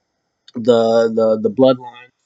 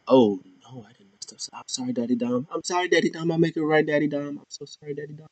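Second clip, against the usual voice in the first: mock pleading Liv; 4 semitones higher, 9 dB quieter, faster than usual. Liv apologizing to Dom.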